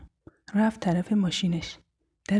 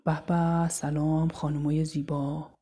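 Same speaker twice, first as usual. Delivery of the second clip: slow, drawn-out sleazy greeting; lightly voiced cocky harasser; leering catcaller; 2 semitones lower, slower than usual. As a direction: draw out an oily hello to strangers. Street harasser greets the girls.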